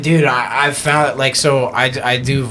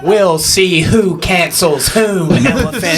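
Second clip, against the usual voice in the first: giraffe character; 4 semitones higher than usual. Acted.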